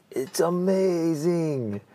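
amazed client. Retold or imitated. Client reporting back, slow awed delight. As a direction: stretch it out in wonder. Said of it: "he was like".

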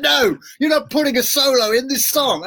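squeaky exaggerated put-down; bandmates shutting him down. Band refusing Kirk his guitar solo, high mock scolding. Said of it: "They're like".

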